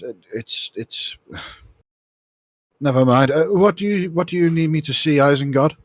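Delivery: a put-upon helper giving up on his point; exasperated young engineer; weary apprentice. Acted. Apprentice answers Isengard, sighs.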